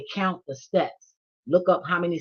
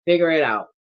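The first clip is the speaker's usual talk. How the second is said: snappy command; 5 dB louder than usual. Real, not acted. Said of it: "I don't mean to say it like that".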